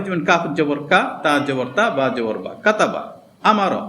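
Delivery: no stretching in "কা", "তা", "বা", run them together as "কাতাবা"; short, quick syllables. Shown as a demonstration. Teacher showing words must be said quickly, short "কাতাবা". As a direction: say "কাতাবা" and "আমারও" with short vowels. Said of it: "আমাদের তাড়াতাড়ি বলতে হবে".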